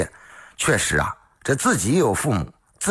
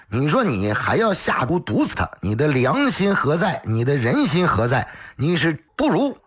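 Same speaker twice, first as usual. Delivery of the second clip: doctor's righteous tirade, pitched higher; stern scolding; 4 semitones higher than usual. Acted. Doctor scolding the scheming daughter-in-law, stern and raised. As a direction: lecture her like a wrathful elder.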